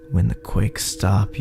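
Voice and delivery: plain reading voice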